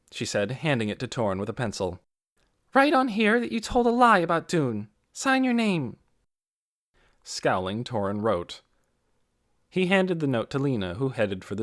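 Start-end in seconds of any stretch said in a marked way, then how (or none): 2.7-6.0 loud firm command; stern order. A narrator's reading. Lena orders Torrin.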